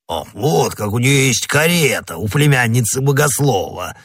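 lightly voiced astonished interruption; mild teasing amazement. A narrator's reading. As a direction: exclaim with rolling, swooping surprise. Porthos interrupts, amazed at the carriage.

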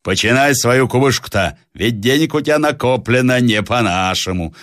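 shout. Acted. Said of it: "закричал Буркин".

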